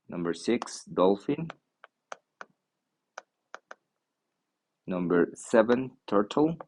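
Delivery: careful vocabulary drill, each item set apart by long pauses; pronunciation model. Shown as a demonstration. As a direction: read out each animal slowly for learners, often with a rising list tune. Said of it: "los nombres de los animales y la pronunciación". (modelo de pronunciación, pausado)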